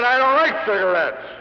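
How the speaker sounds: high, loud retold shout. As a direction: salesman loses his cool, shouting back at the boss. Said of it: "in a still louder tone of voice".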